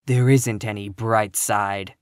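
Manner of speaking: low, slow, dour; grim contradiction. Acted. Eliza contradicting Catherine's optimism, grim. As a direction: shut it down slowly and grimly.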